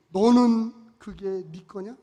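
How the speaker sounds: very slow, weighty question; solemn slow repeat of the divine question; slow echo of God's words. Retold or imitated. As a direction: let each word land slowly. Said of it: "그런 거예요".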